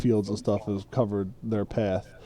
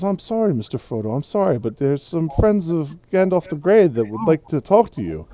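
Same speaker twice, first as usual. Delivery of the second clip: lightly voiced, higher apologetic hobbit; apologetic hobbit servant; 5 semitones higher, 3 dB louder than usual. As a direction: plead gently with your tipsy master. Sam apologising to drunk master.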